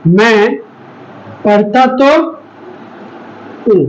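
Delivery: तो pressed, the sentence slowed around it; stress on तो. Shown as a demonstration. Teacher showing the class the stress on तो. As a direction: lean on तो in मैं पढ़ता तो हूँ. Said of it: "मैं पढ़ता तो हूँ बोलने से क्या पता चलता है".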